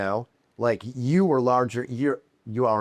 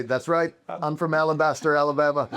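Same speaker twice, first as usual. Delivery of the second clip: hammed-up Southern charm, pitched high; fake Southern accent; 5 semitones higher than usual. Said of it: "this is a fake accent".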